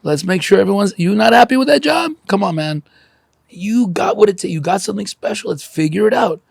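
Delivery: rally everyone like an insistent little-village leader; Papa Smurf. Acted. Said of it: "like a selfish Papa Smurf going".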